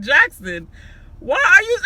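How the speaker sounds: high, loud laughing words; cracking up while calling out. Real, not acted. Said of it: "I was just cracking up laughing like".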